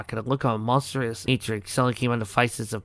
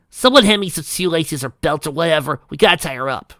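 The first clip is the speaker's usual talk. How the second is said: urgent call; 5 semitones higher, 7 dB louder than usual. Acted. Rainbow urgently orders.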